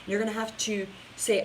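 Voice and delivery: normal talking voice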